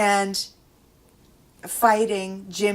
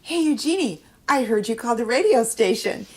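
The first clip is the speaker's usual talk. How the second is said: higher and louder, playful greeting; teasing call-out; 5 semitones higher, 9 dB louder than usual. Retold or imitated. Mother teasing the nurse about her radio call, louder and higher. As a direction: sing out the tease to the nurse.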